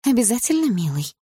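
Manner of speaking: put-on cooing girlfriend. A narrator's reading. Girlfriend agreeing with the young racer, cooing. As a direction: coo it fondly.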